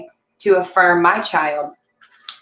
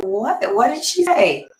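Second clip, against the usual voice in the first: retold surprise; 4 semitones higher than usual. Shocked at grandma's remark.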